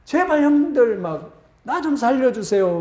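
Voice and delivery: mild mock cry for help; retold desperate cry. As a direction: beg the brothers for your life. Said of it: "요셉이 그때 막 소리칩니다".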